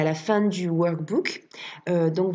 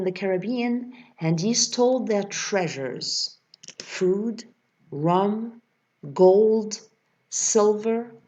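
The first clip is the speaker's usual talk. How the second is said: slow, careful read-aloud of an English text; teacher modelling English pronunciation slowly; slower than usual. Shown as a demonstration. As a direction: read each phrase slowly for the class to hear the pronunciation. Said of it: "je vous lis le texte une fois pour la prononciation".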